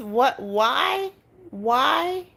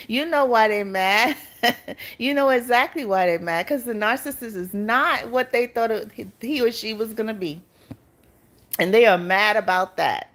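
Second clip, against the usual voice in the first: still laughing. Real, not acted. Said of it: "You got me laughing".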